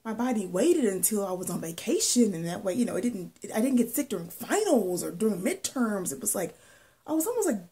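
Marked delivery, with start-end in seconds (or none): 0.1-6.1 mild bragging. Retold or imitated. Student telling her therapist how sickness waited for vacation, mildly bragging. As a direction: lightly gloat while retelling it. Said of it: "a bragging way".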